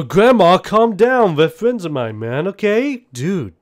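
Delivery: high, loud, exasperated yelling; pleading shout. Acted. Kickflip shouting at his grandma to calm down. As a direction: beg grandma to calm down, frantic. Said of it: "just go".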